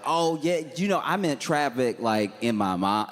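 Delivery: high, awkward excuse voice; sheepish backpedal. Retold or imitated. Caught lying to the group chat, a high sheepish excuse.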